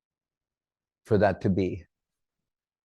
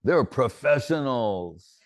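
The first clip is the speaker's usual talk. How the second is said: emphatic correction; 3 semitones higher, much slower than usual. Retold or imitated. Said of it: "He goes".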